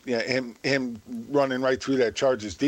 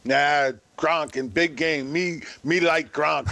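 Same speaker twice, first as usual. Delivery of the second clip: slow, dumb brute voice; lumbering caveman grunt-talk; slower than usual. Pretend. Caveman talk about Gronk.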